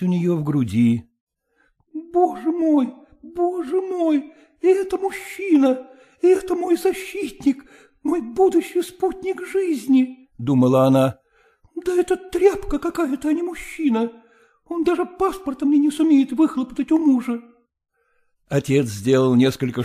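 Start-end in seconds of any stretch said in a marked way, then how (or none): 1.9-10.3 put-on high, pained inner voice of a young wife; despairing heroine, voiced high; Katerina's anguished thought. A narrator's reading. 11.8-17.4 put-on high, pained inner voice of a young wife; despairing heroine, voiced high; Katerina's anguished thought. A narrator's reading.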